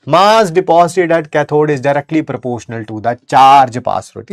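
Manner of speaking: very slow, word by word; dictating slowly; slow dictation. Shown as a demonstration. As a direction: read the law slowly for notes. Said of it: "बस वही है यार".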